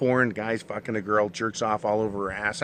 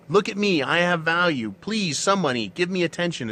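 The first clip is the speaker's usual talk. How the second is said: mock plea for attention; 4 semitones higher than usual. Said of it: "is what women say".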